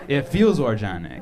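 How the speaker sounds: "organic" said as "or-janic"; smooth soft G. Shown as a demonstration. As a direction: land "organic" on a soft j sound. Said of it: "my own ethnic pronunciation".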